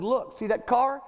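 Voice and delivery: mother's alarmed warning. Retold or imitated. Mama jerking her small son back from the road, alarmed. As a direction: pull him back and point at the car. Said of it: "My mama said".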